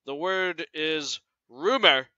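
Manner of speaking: "rumor" leaned on, said slowly; slow down and weigh the word "rumor"; the teacher points out that "rumor" is only a rumor, stressed; stressing rumor. Shown as a demonstration. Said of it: "And I do emphasize".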